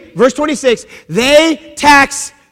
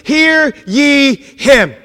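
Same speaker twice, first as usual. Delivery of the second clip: lightly voiced God, slow and drawn out; booming heavenly voice; much slower than usual. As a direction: boom it out slowly, word by word. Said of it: "the voice from heaven booms".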